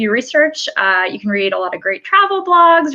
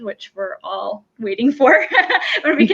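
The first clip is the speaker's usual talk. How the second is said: laughing aside. Real, not acted. Host joking with guests about waiting to travel, laughing. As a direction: chuckle at the long wait.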